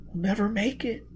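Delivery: put-on high, tense girl's voice; frightened young woman. A narrator's reading. Gisbella protesting to Foyle that there is no air. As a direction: pitch up, sound scared.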